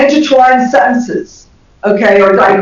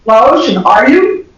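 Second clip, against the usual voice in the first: tag question, laughing; slower than usual. Shown as a demonstration. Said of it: "the referent was".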